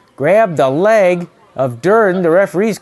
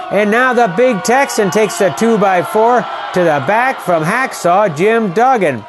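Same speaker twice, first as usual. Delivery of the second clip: excited shouting call; 4 semitones higher than usual. Real, not acted. Calling Duggan's two-by-four attack to viewers, excited shout. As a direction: yell the action as chaos breaks out.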